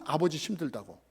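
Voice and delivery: loud, fussy grandma complaint; grandmother scolding. Retold or imitated. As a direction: shoo the kids off for their father. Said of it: "우리들한테 뭐냐면".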